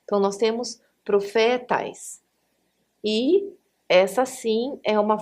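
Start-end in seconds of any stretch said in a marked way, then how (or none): 1.0-2.2 "profetais" stressed on FE; penultimate stress. Shown as a demonstration. Teacher giving the permitted form, "profetais" stressed on FE. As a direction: hold the middle FE of "profetais". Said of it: "a penúltima".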